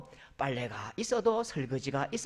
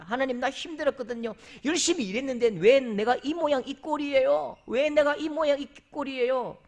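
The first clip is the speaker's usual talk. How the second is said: whining plea, higher and louder; complaining Elijah; 6 semitones higher, 4 dB louder than usual. Retold or imitated. Elijah complains to God he is worn out, higher. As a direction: grumble to God, exhausted. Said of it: "엘리야".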